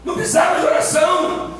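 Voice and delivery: high, insistent, rhythmic list; full-force preaching. Acted. Preacher lists what Eden never needed, full-force preaching. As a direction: drive each phrase home, stretching the last ones.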